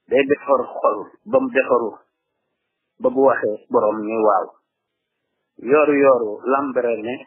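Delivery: measured verse lines with pauses between; verse recitation. Acted. Teacher reciting a Wolof poem to listeners, measured recitation.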